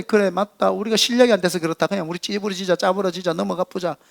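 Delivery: mock defeated grumble, voice dropping away; imitated despondency. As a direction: act out people giving up. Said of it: "망연자실한 사람들한테".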